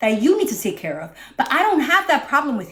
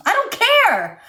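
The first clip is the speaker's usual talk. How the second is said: snapping back; 8 semitones higher, slower than usual. Real, not acted. Angry outburst after calming.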